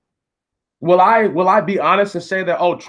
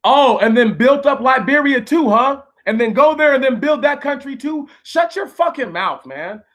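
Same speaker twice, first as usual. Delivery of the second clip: indignant outburst, much higher; heated angry rant; 6 semitones higher than usual. Real, not acted. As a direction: tear into the troll, voice up high.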